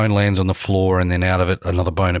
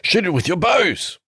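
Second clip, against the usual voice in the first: high squeaky voice; 11 semitones higher, slower than usual. Acted. Player voices in-character line.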